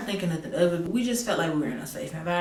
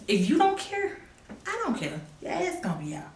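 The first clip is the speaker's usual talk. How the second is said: high mocking scold; 9 semitones higher than usual. Mock scolding of friend.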